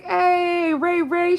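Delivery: coworker's greeting. Retold or imitated. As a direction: shout it like a friend across the clinic. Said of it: "And I was like".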